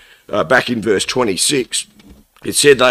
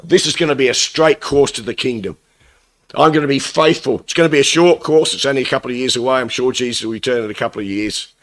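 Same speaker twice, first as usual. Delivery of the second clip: eager new believer; faster than usual. Retold or imitated. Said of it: "the statement we're all saying".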